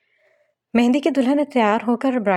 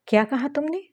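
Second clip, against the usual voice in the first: suspicious; 7 semitones higher than usual. A narrator's reading. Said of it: "आंखें छोटी करके बोली".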